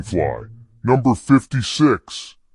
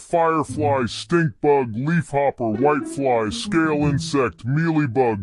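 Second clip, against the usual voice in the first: higher, quick listing; rapid-fire list; 6 semitones higher than usual. Acted. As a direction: rattle off the names.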